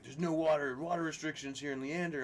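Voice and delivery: mock inspector. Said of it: "He's like".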